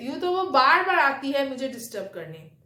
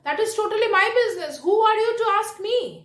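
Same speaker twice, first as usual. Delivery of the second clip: slow, higher and louder, each word pressed out; retold angry retort; 7 semitones higher, 4 dB louder, much slower than usual. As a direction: replay the indignant comeback at the neighbour, deliberately and firmly. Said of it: "तो फिर मुझे गुस्सा आ गया".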